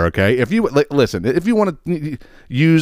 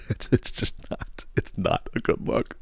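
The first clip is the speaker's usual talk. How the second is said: muttered aside; 11 dB quieter, slower than usual. Real, not acted. Quiet aside after laughing.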